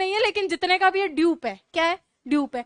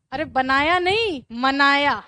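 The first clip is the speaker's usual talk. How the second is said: मनाया punched loud, slowly, correcting बनाया; corrective stress; 4 dB louder, slower than usual. Shown as a demonstration. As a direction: hit मनाया hard, slow and firm. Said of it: "correcting मनाया, not बनाया". (बनाया नहीं, मनाया पर ज़ोर देकर)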